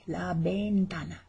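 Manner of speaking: "ventana" opened on a b sound. Shown as a demonstration. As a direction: show "ventana" with b for the v. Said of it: "the V is like a B".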